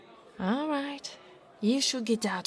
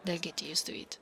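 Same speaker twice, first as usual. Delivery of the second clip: whispering; 3 semitones lower, 6 dB quieter than usual. Acted.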